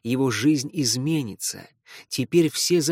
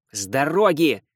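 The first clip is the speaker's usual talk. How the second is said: shout; 3 dB louder than usual. Acted. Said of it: "закричал Лео".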